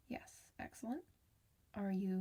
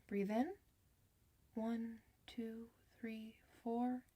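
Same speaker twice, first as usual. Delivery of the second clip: guided breathing count. Shown as a demonstration. Nurse guiding a transforming werewolf through breathing. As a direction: coach the breaths gently, one count at a time. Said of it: "So it'll be like".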